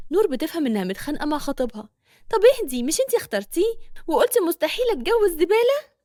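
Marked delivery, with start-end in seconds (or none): 2.3-6.0 Nour's voice. Acted. Nour teases friend.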